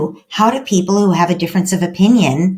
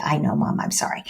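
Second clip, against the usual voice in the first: whispered sheepish apology; 4 semitones lower, 8 dB quieter than usual. Retold or imitated. Teen daughter whispering sorry to mom after the hug, sheepish whisper. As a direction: breathe it out like an embarrassed teen.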